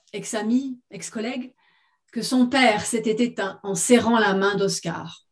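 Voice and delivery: measured literary read-aloud; story narration. A narrator's reading. Author reading her short story to listeners, story narration. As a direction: read it as written fiction, phrase by phrase.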